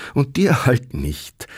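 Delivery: lightly teasing answer to the grumbling farmer; smiling reply. A narrator's reading. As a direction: tease him gently, smiling. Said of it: "versetzte Sepp lächelnd".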